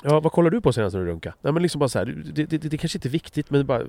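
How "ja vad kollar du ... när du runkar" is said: blunt direct. Shown as a demonstration. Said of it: "kul att vara väldigt rak".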